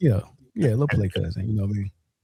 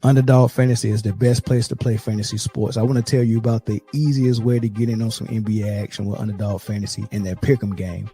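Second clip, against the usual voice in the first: sleepy ad read. Real, not acted. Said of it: "like you just woke up".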